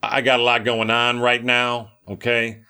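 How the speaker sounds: laid-back bro talk, lightly put on; casual slangy Jesus. Preacher imagining a self-absorbed Jesus, mock casual bro voice. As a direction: brush him off like a stressed buddy. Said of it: "I might have said".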